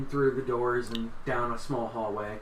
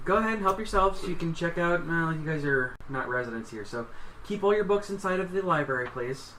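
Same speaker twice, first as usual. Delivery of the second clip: slightly higher, hushed-style librarian voice, still voiced; stage-whispering librarian; 4 semitones higher than usual. Librarian welcoming visitors to check out books, mock stage whisper. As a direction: play a helpful librarian, lightly voiced. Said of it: "She's whispering, but I have to talk behind".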